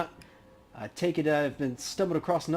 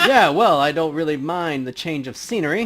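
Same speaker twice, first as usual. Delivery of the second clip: laughing Dresden; 2 semitones higher, 9 dB louder than usual. Acted.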